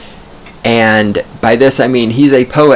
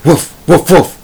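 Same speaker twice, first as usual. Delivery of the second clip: short, higher-pitched dog woofs; dog impersonation; 7 semitones higher, 4 dB louder than usual. Acted. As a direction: do a dog barking in words. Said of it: "That's my other dog impersonation".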